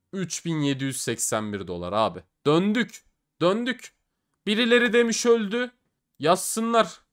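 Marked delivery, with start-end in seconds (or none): 2.5-7.0 triumphant cheer. Real, not acted. Triumph after winning back.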